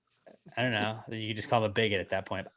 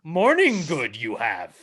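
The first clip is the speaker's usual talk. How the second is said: Yoda voice; 4 dB louder, slower than usual. Pretend. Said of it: "talk in the Yoda accent".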